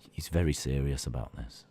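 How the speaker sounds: very low, ominous voice; mock-grave threat. Streamer warning chat about blocking, deep mock menace.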